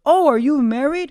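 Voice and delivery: lightly put-on, lilting inquiry; imitated woman's question. Voicing the woman's small talk.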